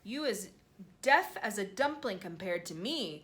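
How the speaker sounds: a mild giant's cry; cried out. Acted. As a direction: cry it out, teasing. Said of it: "cried the B F G".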